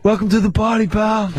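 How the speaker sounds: lightly voiced movie tough guy; Bruce Willis. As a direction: slightly impersonate a wry action star.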